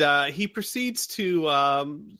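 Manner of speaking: ordinary talk, nothing marked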